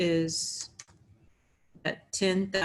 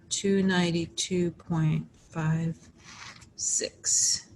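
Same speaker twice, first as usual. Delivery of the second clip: louder, firm answer; emphatic announcement; 4 dB louder, slower than usual. Real, not acted.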